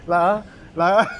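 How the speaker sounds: teasing through a laugh; chuckling, playfully accusing. Real, not acted. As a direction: laugh while you point it out. Teasing friend about looking at woman.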